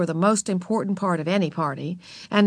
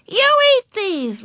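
put-on high, slow, loud child's order; little girl's demanding shout; yelled command; 5 dB louder, slower than usual. A narrator's reading. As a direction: yell it bossily, stretched out. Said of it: "Ramona yelled".

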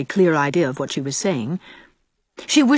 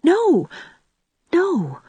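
much higher, urgent no; eager; 12 semitones higher than usual. A narrator's reading. Anne to Gilbert, denying there is anyone else, eager. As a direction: jump in quickly to deny it. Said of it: "said Anne eagerly".

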